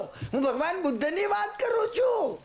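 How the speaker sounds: emphatic declaration. Real, not acted. Preacher stresses his point.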